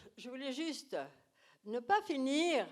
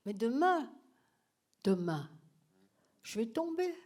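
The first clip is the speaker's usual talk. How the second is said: mock exhaustion; 5 semitones higher, 3 dB louder than usual. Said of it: "Je, épuisée".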